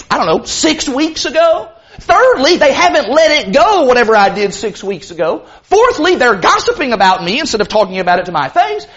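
lightly acted touchy churchgoer spiralling; overly defensive person. Preacher plays a member imagining gossip, mildly overly defensive. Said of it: "I'm gonna be the overly defensive person".

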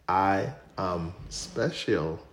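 slow, heavy Ghanaian accent. Shown as a demonstration. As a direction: say it slowly in a thick Ghanaian accent. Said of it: "with your thick Ghanaian accent".

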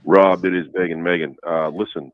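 hoarse voice. Real, not acted. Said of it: "Are you sick? ... swallowed a bunch of razors".

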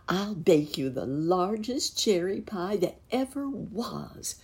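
high, airy enthusiasm; grand promise. A narrator's reading. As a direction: promise it with a rising flourish. Muskrat lady makes grand promise.

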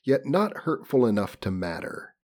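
measured, formal audiobook delivery; story narration. A narrator's reading. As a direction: read it out like a literary audiobook. Reads novel aloud.

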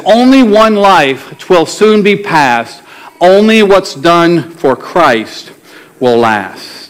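slow, measured recital of a poem; deliberate, spaced-out verse reading; solemn poem recitation. Acted. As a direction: let each phrase land slowly, with weight.

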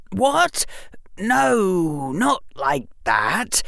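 put-on a bright boy working it out aloud; clever boy. A narrator's reading. Harry voiced by narrator.

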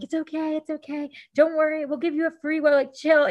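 high-pitched, imitated comforting; soothing reassurance. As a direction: play kind strangers consoling someone in tears. Strangers comfort her as she cries.

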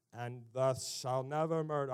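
put-on pompous holy voice; holy Pharisee. Pharisees answering Jesus on murder, pompously holy. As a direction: intone it like a self-righteous religious man. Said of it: "that's how they talk".

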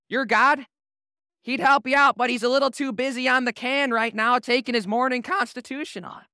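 playful jeering at the other side; trash talk. Retold or imitated. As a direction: needle a rival with mock excuses. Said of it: "that awesome trash talk".

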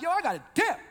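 casual Jesus. Pretend. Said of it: "I'm paraphrasing a little bit".

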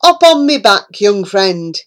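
a hint of a vain toad; lightly voiced boastful toad. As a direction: show off proudly. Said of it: "he cried".

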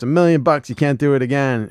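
high, loud taunting Dale; Dale's dare. Retold or imitated. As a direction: throw out the dare. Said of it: "And Dale goes".

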